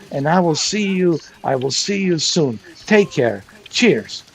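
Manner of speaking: plodding mock vlog presenter, stretching words; imitating telescope unboxer. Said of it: "Even when he did that unboxing of that telescope".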